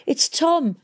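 high, carrying call; calling back. A narrator's reading. Hester calling back to Valentine. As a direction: call it over the wind. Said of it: "Hester called back".

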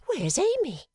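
a sister suddenly missed; Fanny's alarm. A narrator's reading. Fanny asks the family in high alarm. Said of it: "cried Miss Fanny all at once".

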